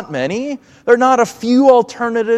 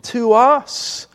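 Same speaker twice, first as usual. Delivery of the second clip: earnest plea to be let in, pitched higher; pleading; 3 semitones higher than usual. Acted. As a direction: beg the master at the locked door. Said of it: "plead to the master".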